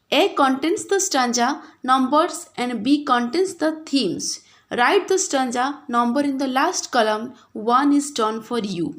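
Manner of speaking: very slow, word-by-word reading of the instructions; slow textbook reading. Shown as a demonstration. Teacher reading the exercise directions to pupils, very slowly. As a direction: dictate it slowly so every child follows.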